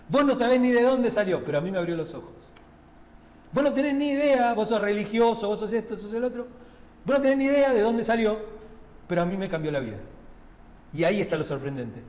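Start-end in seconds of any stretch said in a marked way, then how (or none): 0.1-10.0 indignant healed man. Acted. Healed man confronting the religious.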